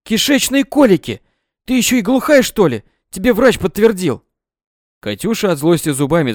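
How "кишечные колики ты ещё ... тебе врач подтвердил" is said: loud, high scolding; scolding shout. A narrator's reading. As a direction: yell at the daughter in outrage. Mother yelling at daughter. (громкий возмущённый окрик)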